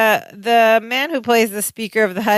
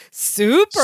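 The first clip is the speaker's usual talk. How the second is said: higher-pitched imitation Californian accent; breezy mock Californian accent; Californian, no foreign accent; 7 semitones higher than usual. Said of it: "like, no accent or anything, just goes".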